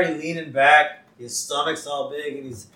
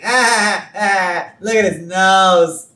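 laughing Wiggum; 5 semitones higher, 9 dB louder than usual. Retold or imitated. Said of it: "he's just laughing".

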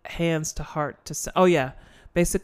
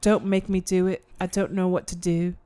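British attempt sliding into Australian; bad British accent; 2 semitones higher than usual. Widow pleading at the grave, bad British-Australian accent. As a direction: fake British, drifting Australian. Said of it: "That's so Australian".

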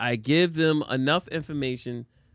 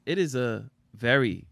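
mock ominous advice. Shown as a demonstration. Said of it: "You simply say".

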